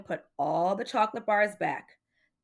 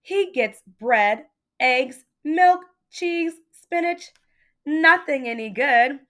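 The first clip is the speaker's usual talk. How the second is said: put-on rising, louder kid listing boring food; whiny complaint; 6 semitones higher, 6 dB louder, slower than usual. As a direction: whine through the grocery list. Child complaining about boring food.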